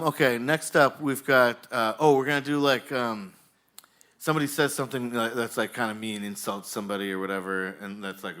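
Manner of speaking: ordinary talk, nothing marked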